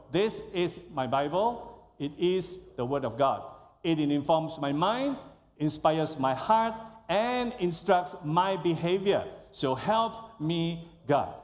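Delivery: congregation reciting together; whole room declaring in unison; many voices in unison. Real, not acted. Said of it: "So lift up the Bible and say".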